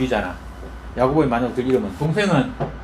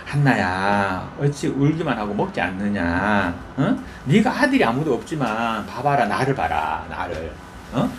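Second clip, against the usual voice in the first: gentle comfort; 3 semitones lower than usual. Retold or imitated. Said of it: "뭐라 하냐면".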